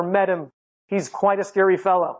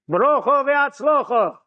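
a slow, drawn-out blessing; rabbi's blessing; 3 semitones higher, slower than usual. Retold or imitated. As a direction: intone it slowly, imitating an old rabbi. Imitating the rabbi's terse blessing.

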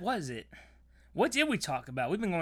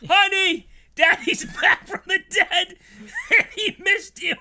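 high, laughing fake-sad dad voice; hammed-up estranged father; mock tearful dad; 9 semitones higher, 5 dB louder than usual. Dad voiced, barred from daughter.

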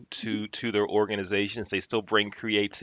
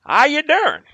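a hammed-up Southern boss calling to check in; playful fake Southern accent, high and loud; 10 dB louder than usual. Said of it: "I'm gonna fake a Southern accent".

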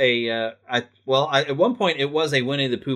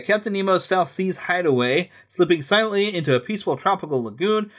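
brochure read, lightly dramatic; reading aloud; 3 semitones higher than usual. Acted. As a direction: read it like guidebook copy. Reads aloud from a guidebook.

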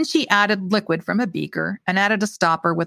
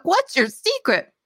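high, slow, gushing question; feigned enthusiasm; 11 semitones higher than usual. A narrator's reading. Visitor flatters the baker while nearly choking, feigned enthusiasm. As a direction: coax with put-on admiration. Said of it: "trying not to choke".

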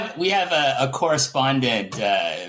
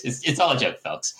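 usual speaking voice

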